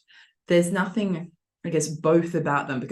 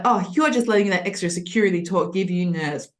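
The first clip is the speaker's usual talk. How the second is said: dismissive. Shown as a demonstration. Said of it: "So he's like".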